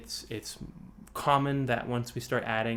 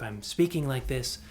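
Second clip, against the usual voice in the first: off voice. Shown as a demonstration. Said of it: "right now I'm a little bit off voice".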